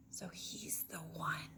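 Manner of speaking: hushed slow whisper. Acted. Katie realising who the pirate is, whispering. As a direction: whisper the discovery like a secret. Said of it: "whispered Katie".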